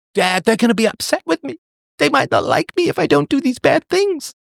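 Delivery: put-on high, pleading teen complaining to his parents; mock a kid whining he'll be disliked; a kid begging mom and dad, whiny and high. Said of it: "say to your own children".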